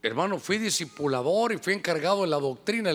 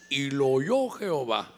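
ominous; 4 semitones lower, slower than usual. Acted. Ominous aside after quoted pride.

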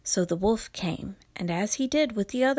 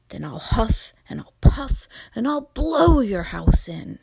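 loud, menacing wolf voice; big bad wolf threat; 6 dB louder than usual.

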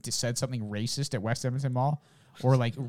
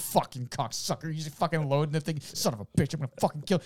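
raised-pitch cursing rant; mock rage; 4 semitones higher than usual. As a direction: play a man cursing as he struggles to reload. Acting out enraged man loading musket.

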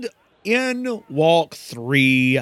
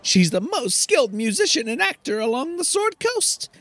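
Garrick voice; 6 semitones higher, faster than usual. Acted. Player voices Garrick's quest pitch.

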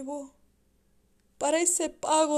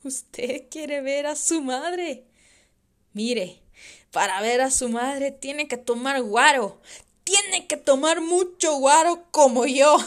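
put-on drunken cruelty; 6 dB louder than usual. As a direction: lure the boy to drink with a sick laugh. Father cruelly urges son to drink.

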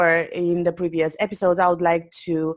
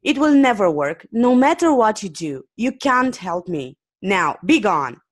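a touch of angry dismissal, read aloud; firm, irritated brush-off; angry refusal; 3 semitones higher, 3 dB louder than usual. Acted. Angry man telling a stranger to leave, mildly angry. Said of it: "the angry man replied".

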